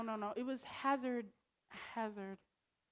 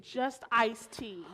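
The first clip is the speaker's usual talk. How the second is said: mocking echo; 4 semitones lower, much slower than usual. Mocking the drunk excuse.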